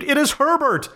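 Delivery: high, desperate scream of a name. A narrator's reading. Mother hearing knocks, screaming her son's name. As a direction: cry out for her lost son. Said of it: "she screamed".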